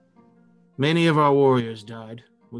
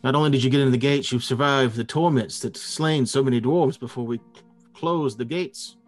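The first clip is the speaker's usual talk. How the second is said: fast, louder, agitated; 4 dB louder than usual. Acted. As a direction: rush it out in alarm. GM voices guardian, agitated.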